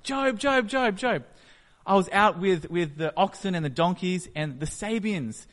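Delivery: panicked messenger blurting the disaster; frantic servant. Retold or imitated. Servant racing up to tell Job of the raid, frantic high shout. Servant runs up with bad news.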